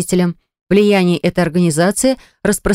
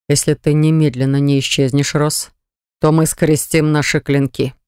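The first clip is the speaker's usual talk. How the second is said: low threat through teeth; cold menace, words squeezed out; dark lord hiss; 3 semitones lower than usual. Acted. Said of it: "а после процедил". (процедил низким голосом)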